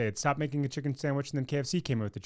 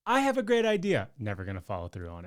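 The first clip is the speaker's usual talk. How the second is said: mock idea-haver; 5 semitones lower, faster than usual. Co-host teasing her about follow-through, mock enthusiasm then deflating. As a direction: chirp the boast, then drop it low and quick. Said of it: "this is the classic".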